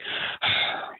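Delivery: sigh of relief. Retold or imitated. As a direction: let out a light relieved sigh, imitating her. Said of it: "a sigh of relief in her voice".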